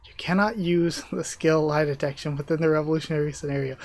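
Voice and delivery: reading the line through a laugh breaking in; stifled laugh mid-line; laughing while reading. Real, not acted. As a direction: try to stay straight but crack up mid-sentence. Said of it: "making it hard not to laugh".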